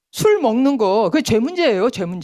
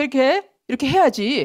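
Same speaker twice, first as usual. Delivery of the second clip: higher insistent telling-off on 해야지; mock lecturing; 3 semitones higher than usual. Law teacher lecturing people, raised insistent tone. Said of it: "하고 율법 교사가 된다는 거예요".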